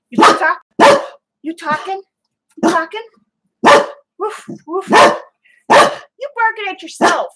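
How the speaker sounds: high, sing-song puppy talk. Real, not acted. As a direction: coo at the barking puppy. Cooing at the barking dog.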